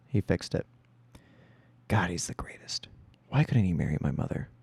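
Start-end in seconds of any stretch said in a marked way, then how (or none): 1.9-4.5 breathy whispered aside. Retold or imitated. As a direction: whisper it under your breath. Child's secret thought.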